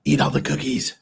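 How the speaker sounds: talking around a lollipop; sucking a lollipop. Real, not acted. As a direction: lollipop in mouth, words muffled. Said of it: "you have a lollipop in your mouth".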